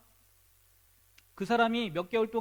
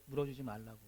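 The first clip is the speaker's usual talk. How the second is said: normal talking voice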